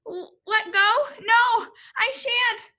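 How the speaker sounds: high, loud frightened refusal; cling on and refuse, high and loud; scared Kevin shouting at the crowd. A narrator's reading. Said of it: "shouted Kevin".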